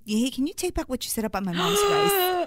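boyfriend's outraged retold demand; mock demand. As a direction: act out his indignant ask. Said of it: "he just looks at me dead in my eyes and goes".

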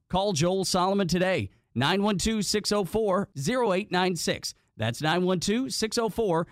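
measured, projected podcast sponsor read. Acted. Host promoting real estate sponsor, announcer-style ad read. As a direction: read the sponsor copy with polished emphasis.

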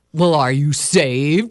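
slow, drawn-out stern challenge; mild bellow. Acted. Preacher confronts the doubter up close, mild slow bellow. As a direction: mildly bellow like an old school teacher. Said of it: "she bellowed close up to my face like an old school teacher".

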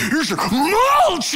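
resentful husband tossing mulch with a sneer; mock angry retort. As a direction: hurl the words like the bags. Sulky husband throwing mulch bags.

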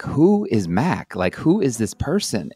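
slowly puzzled, who on earth is that; confused. Retold or imitated. Host retelling his first Boston visit, puzzled and slow. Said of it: "and I'm like".

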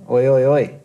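hammed-up heckling to cut him off; imitating interrupting shouts. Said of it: "he starts interrupting me".

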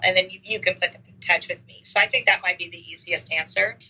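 hoarse, worn-out voice; raspy voice. Real, not acted. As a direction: speak through a raspy voice. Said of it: "apologize for my raspy voice".

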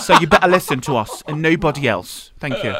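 mock British sign-off; hammy British announcement; terrible British accent. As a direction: wrap up in a put-on British accent. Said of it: "The British accents".

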